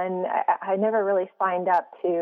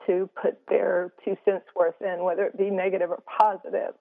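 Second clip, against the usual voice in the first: teary. Real, not acted. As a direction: speak on through held-back tears. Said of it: "sorry, I'm getting a little teary".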